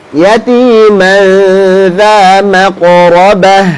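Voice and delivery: slow recitation with long held vowels; Quran recitation. Shown as a demonstration. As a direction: recite slowly, sustaining each nasal hum. Recites Quran for class to repeat.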